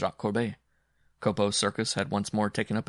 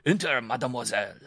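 raised, higher welcoming call; aloud; 4 semitones higher, 4 dB louder than usual. A narrator's reading. Simon inviting his visitor in, calling aloud. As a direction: call out gallantly through the door. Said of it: "but aloud he said".

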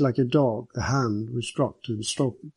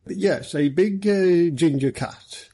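slow, easy delivery, pitched higher; 6 semitones higher, 3 dB louder, much slower than usual. A narrator's reading. Superintendent describing the found cat to its owner, easily. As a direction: take your time, at ease. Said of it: "Holloway continued easily".

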